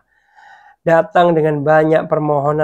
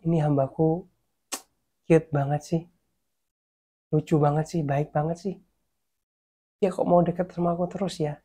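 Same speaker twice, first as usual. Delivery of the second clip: soft, lower, tenderly amused; fond admiration; 4 semitones lower, 7 dB quieter than usual. Acted. God voiced fondly about David.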